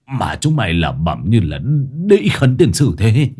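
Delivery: spluttering, coughing annoyance; a touch of anger through coughs; groggy irritation. Acted. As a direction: stammer out a cross scolding, rising at the end. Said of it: "Gã nghiến răng nghiến lợi".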